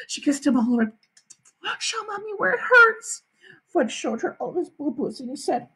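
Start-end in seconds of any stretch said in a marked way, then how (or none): 1.8-3.2 put-on high baby-talk coaxing; cooing mother. A narrator's reading. Mother checking her hurt son, high cooing. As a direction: coax it as to a small child.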